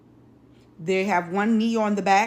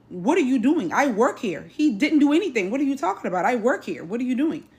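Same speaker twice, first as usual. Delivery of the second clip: insistent mock yell, slightly raised; retold yelling; 3 semitones higher than usual. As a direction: imitate a coworker's heated protest.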